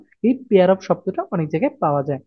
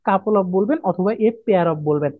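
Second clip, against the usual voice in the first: slow teaching emphasis; slower than usual. Shown as a demonstration. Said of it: "কোনো সময় টু বলবেন না".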